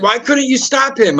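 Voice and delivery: high, whiny mock cop complaint; imitating the cop. Cop at the door blaming him for not stopping the kid, whiny.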